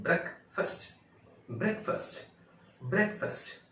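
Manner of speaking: short e, reduced fust in ब्रेकफास्ट; correct pronunciation. Shown as a demonstration. Teacher repeating the corrected word, short-vowel demonstration. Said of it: "ब्रेकफास्ट नहीं".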